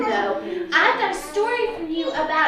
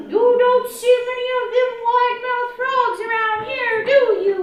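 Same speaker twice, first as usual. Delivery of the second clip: small-mouthed frog; 7 semitones higher, 5 dB louder, faster than usual. Acted.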